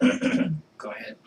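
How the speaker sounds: slow unvoiced whisper. Real, not acted. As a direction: whisper it softly to prompt. Whispered prompt.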